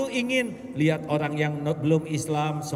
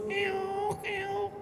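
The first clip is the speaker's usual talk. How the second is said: very high mock cat mewing, fading; a thin stray cat's mew; cat meow; 4 dB quieter than usual. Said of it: "kata kucing lah".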